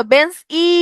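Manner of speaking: বেঞ্চ ই with a long i tacked onto the end; added final i. Shown as a demonstration. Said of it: "একটা ই ধ্বনি যুক্ত হইছে".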